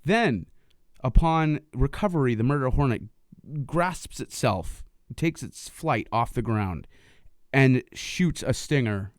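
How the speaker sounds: play-by-play of an epic game battle, with weighty pauses; mock-dramatic narration. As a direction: narrate it like a hammed-up showdown. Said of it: "let's make that more dramatic".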